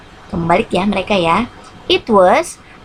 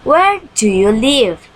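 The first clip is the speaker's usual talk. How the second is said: slow model sentence; 4 semitones higher, slower than usual. Shown as a demonstration. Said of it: "For the examples".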